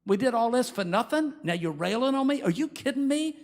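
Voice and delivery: David, betrayed by Nabal, demands answers angrily; angry outburst. Retold or imitated. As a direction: bristle with disbelief and anger. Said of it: "David was angry".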